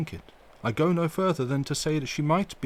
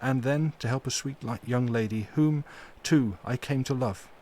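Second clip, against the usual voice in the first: full of pity; 3 semitones higher than usual. Acted. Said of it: "with an accent full of pity".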